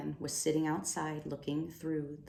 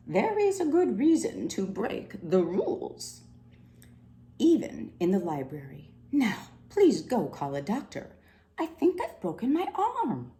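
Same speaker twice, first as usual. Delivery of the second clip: higher, strained, hurt voice; pained older librarian; 5 semitones higher, 5 dB louder than usual. Acted. Injured head librarian asking for a doctor, strained and high. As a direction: speak through the pain of a broken arm.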